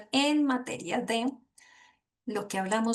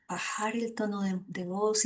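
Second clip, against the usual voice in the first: softer, dropped voice; lowered voice; 6 dB quieter than usual. Shown as a demonstration. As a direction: bring the voice down softly, as a demo. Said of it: "diversidad de tonalidad en nuestra voz". (bajando la voz suavemente)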